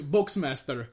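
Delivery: lightly mimicked Russian accent; Russian-accented sound-out. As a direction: say it as a mock-Russian brand name. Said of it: "say it with a Russian accent".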